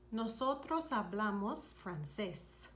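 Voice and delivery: "Nosotros hablamos francés" slowed for learners to copy; slow it down so each syllable of "Nosotros hablamos francés" is clear; slow repeat. Shown as a demonstration. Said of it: "You would say".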